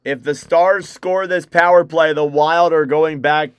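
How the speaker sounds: brisk broadcaster's call of the action; live play-by-play. Acted. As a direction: call the hockey game live for stream viewers.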